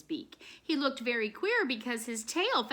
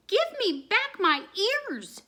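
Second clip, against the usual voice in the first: demanding; 11 semitones higher, 5 dB louder than usual. A narrator's reading. Kitten demands her ears back.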